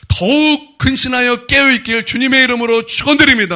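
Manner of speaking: loud, high, sustained pulpit cry; full-force preaching benediction. Real, not acted. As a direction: proclaim the blessing at full force. Climax of preached blessing. (크고 높게 외치는 축원)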